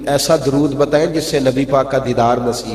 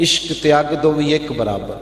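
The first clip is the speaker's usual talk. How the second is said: reciting Punjabi poetry. Acted. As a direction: recite the Bulleh Shah lines like a qawwal. Recites Bulleh Shah verse.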